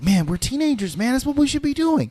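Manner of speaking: mock teen whine. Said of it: "I was like".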